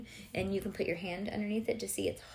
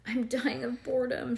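moaning; 4 semitones higher, 4 dB louder than usual. Acted. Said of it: "she moaned".

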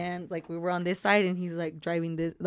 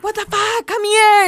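high, loud mock yell across the street; retold yell; 12 semitones higher, 8 dB louder than usual. Uber driver yelling at the couple across the street, loud and high. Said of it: "screaming at us".

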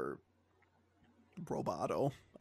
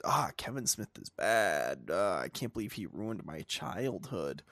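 whiny fan; 4 semitones lower than usual. Retold or imitated. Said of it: "absolutely losing your mind at him".

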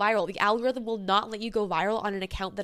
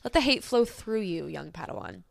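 Yoda-style wise master. Acted. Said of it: "From some real life figures".

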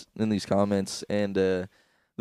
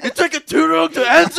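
high loud laughing repeat; giggling mock host; 10 dB louder than usual. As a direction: crack up while quoting it.

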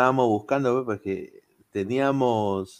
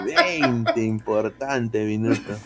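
laughing slow quote; slower than usual. Retold or imitated. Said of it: "y así me dijo".

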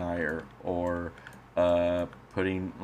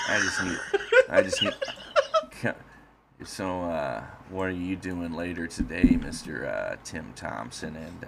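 a hint of a creepy slasher killer; serial killer voice. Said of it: "I'm gonna talk like I'm a serial killer now".

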